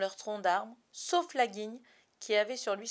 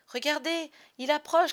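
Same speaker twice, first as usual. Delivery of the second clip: high, loud pointing call; excited shout; 7 semitones higher, 9 dB louder than usual. A narrator's reading. Curly shouts to the boys, pointing at the sky. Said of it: "cria le frisé".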